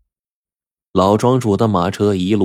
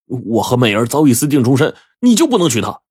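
indignant question; 3 semitones higher than usual. Acted. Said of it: "才说".

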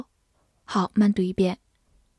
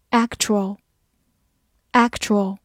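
slow word drill; much slower than usual. Shown as a demonstration. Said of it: "teacher's review of vocabulary words".

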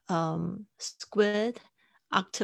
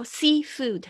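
seafood, slow and drawn out, louder; over enunciating; 7 semitones higher, 10 dB louder than usual. Shown as a demonstration. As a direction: stretch out each sound of seafood. Teacher models word after clip.

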